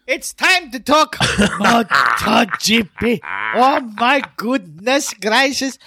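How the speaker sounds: stretched-out, hyped-up topic announcement; hyped show intro. Acted. Host launching the MotoGP segment, hyped and drawn out. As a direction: draw it out with showy amazement.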